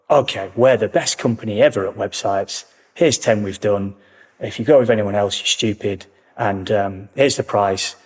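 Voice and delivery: lightly pushy salesman patter; a hint of a slick car salesman closing the deal; car salesman pitch. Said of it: "I feel like you've just sold me a car".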